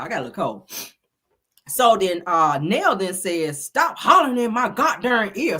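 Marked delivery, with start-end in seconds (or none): 3.6-5.6 high-pitched mock scolding; retold cussing out. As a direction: imitate a woman telling someone off. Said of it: "she done cussed Martell out".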